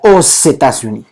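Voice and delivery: "aux États-Unis" enlazado con una z; alianza fonética. Shown as a demonstration. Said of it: "entonces hacíamos una alianza fonética". (une la x de "aux" a la vocal siguiente, sonando como s)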